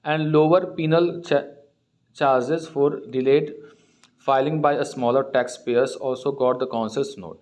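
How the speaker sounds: reads the English news line word by word, very slow; slow reading aloud. Acted. Teacher reading the newspaper aloud to students, slow and deliberate. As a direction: read it slowly so students can follow.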